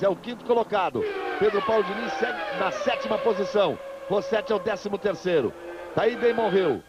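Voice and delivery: brisk live race call; motorsport commentator. Real, not acted. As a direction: call the pit stops live, upbeat.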